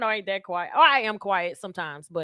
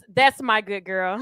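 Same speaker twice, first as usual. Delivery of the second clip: sultry praise; 4 semitones lower, slower than usual. Retold or imitated. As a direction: draw it out, nearly shouting, teasing. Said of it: "She gets".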